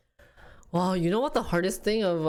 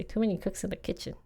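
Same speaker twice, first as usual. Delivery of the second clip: softer, quick repeat to herself; muttered to self; 6 dB quieter, faster than usual. Real, not acted. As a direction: say "Too many cooks in the kitchen" quietly and fast, under the breath. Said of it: "That's what I wanted to say".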